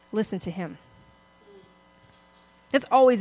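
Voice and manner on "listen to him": softly repeated, much softer; quiet echo. Shown as a demonstration. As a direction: let it sink in quietly. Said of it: "an instruction".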